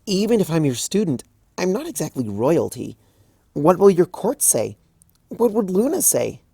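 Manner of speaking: high, anxious student; anxious young mare. Acted. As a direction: fret aloud about the court. Twilight anxious.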